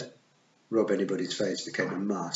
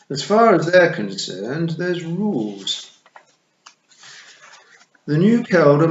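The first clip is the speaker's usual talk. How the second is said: toad; 8 semitones higher, 7 dB louder than usual. A narrator's reading. Toad explains Feegle rules.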